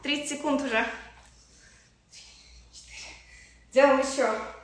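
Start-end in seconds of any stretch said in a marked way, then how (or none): 2.1-3.1 whispered rep count; counting workout reps. Real, not acted. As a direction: breathe the count out softly. Counting reps mid-exercise.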